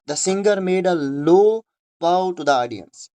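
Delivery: slow, word by word; careful classroom reading pace; slow dictation read. Shown as a demonstration. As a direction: read the sentence out slowly for the class. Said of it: "बाओ".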